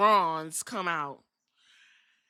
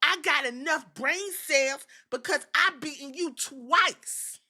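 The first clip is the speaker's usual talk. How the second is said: Bron Breaker impression; 7 semitones higher than usual. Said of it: "Braun Breaker said".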